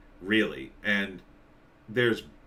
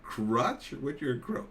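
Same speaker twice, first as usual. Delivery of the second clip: slow, softer, each word weighed; slow puzzled reread; 3 semitones higher, 4 dB quieter, slower than usual. Shown as a demonstration. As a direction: sound it out slowly, baffled. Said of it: "What is that?".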